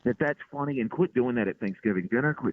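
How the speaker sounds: retelling a rant, pitch climbing, volume steady; going off on a heckler. Retold or imitated. Comic to heckler at the show, going off in a high-pitched mock rant. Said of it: "I just went off".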